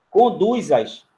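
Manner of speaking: "Conduz-as" with the Z kept before "as"; awkward uncontracted form. Shown as a demonstration. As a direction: sound out the clumsy "Conduz-as". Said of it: "Não ia ficar estranho". ("Conduz-as" com Z, para mostrar a estranheza)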